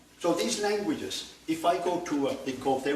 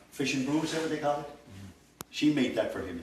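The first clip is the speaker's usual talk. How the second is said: normal talking voice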